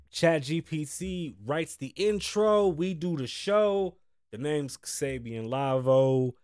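slow, measured host's intro; unhurried podcast opening line; show intro. Acted. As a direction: draw out each phrase like a show opener. Recites the show's intro.

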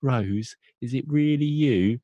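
high-pitched acted astonishment; mock disbelief. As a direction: play the mother stunned by her daughter's return. Acting mother seeing missing daughter.

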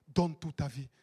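usual speaking voice

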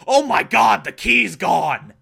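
loud, high cry of alarm; mock shock. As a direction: exclaim in hammed-up shock, drawing out the end. Acted shock at the theft.

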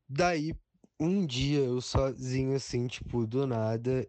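high and eager; rising excitement; excited. Real, not acted. Excited about making the demo.

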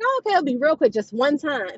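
softened, gentle coaxing. Retold or imitated. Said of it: "soften it up".

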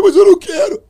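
high, loud outburst; high-pitched yelled objection; retold alarmed refusal. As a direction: burst out in protest.

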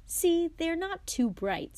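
high, slow scoff; mock the gnomes slowly.

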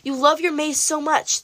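king mocking Daedalus. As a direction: taunt the prisoner like a cruel king. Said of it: "the king said".

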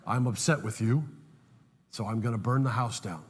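James Earl Jones voice. Retold or imitated. Caller threatens the husband in a low James Earl Jones voice. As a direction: lightly play a deep-voiced villain. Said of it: "the voice of James Earl Jones said".

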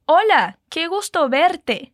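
Spanish model phrase, qué gusto verte slowed; model answer in Spanish. Shown as a demonstration. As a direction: say it clearly for the learner. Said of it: "E como dizemos".

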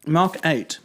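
talking while chewing; words round a bite of food; mouth full. Real, not acted. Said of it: "I'm chewing".

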